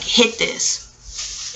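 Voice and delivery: man quietly offering her a hit; hushed offer. Retold or imitated. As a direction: slip it to her under the breath. Man offers drugs, retold.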